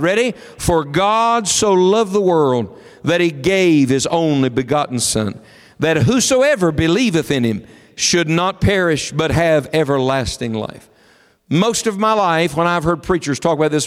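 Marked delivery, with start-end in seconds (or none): 0.6-10.9 slow, measured verse recitation; reading scripture aloud. Real, not acted. Preacher leads congregation in the verse, reading aloud. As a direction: recite it slowly in phrases for all to follow. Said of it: "read it aloud".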